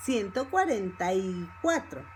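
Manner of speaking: "cuarenta y" linked, falling at the end; fast connected speech. Shown as a demonstration. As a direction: run the number together as one phrase. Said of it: "if you speak fast".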